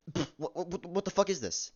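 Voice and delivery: can't believe what he's seeing; high-pitched exasperated what the fuck; outraged disbelief. Real, not acted. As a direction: pitch jumps way up, incredulous. Ranting at bad movie animation.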